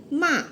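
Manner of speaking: "ma" falling sharply from high; Mandarin fourth tone. Shown as a demonstration. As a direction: drop "ma" from a high start. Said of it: "fourth tone".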